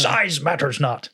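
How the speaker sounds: lightly voiced creaky little master, drawn out slowly; slow, hinted Yoda voice. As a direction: imitate an actor's playful take on a wise old creature. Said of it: "he does a full Yoda impression".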